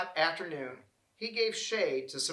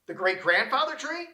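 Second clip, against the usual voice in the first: high, loud disbelieving question; shocked; 8 semitones higher, 5 dB louder than usual. A narrator's reading. Forest animal hearing the old tree is cut, in high shocked disbelief. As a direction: gasp it out in disbelief.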